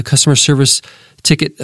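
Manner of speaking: ordinary delivery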